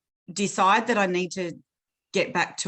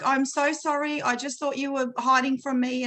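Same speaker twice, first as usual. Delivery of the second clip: retold apology; 5 semitones higher than usual. Apologising to crying child, retold.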